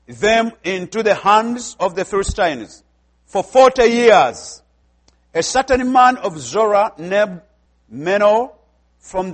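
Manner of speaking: slow, measured public Bible reading; scripture reading. Real, not acted. Preacher reading Judges thirteen to the congregation, measured scripture reading. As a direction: read it out deliberately, phrase by phrase with pauses.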